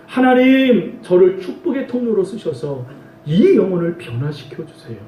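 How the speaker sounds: voicing a believer praying through pain; earnest prayer. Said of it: "한 손으로는 하나님을 붙잡으라는 거예요".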